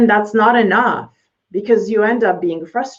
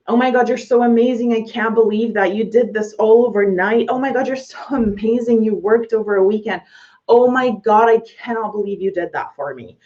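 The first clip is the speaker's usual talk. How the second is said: higher, gushing client, a touch of laughter; gushing praise; 3 semitones higher than usual. Retold or imitated. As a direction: rave like a thrilled client.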